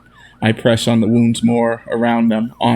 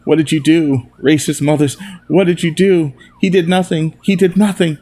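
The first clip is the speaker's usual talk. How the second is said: angry shouting; 5 semitones higher than usual. Acted. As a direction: rage at the officers. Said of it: "I can hear Jacob shouting".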